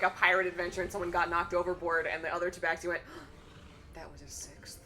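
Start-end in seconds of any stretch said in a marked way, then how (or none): 3.1-3.9 soft gasp of shock; mock gasp. Retold tabaxi gasps. 3.9-4.8 low, very soft aside; retold hushed alarm.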